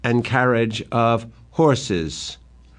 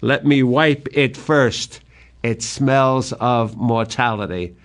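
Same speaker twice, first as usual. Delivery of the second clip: chagrin; slower than usual. Acted. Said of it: "in enormous chagrin".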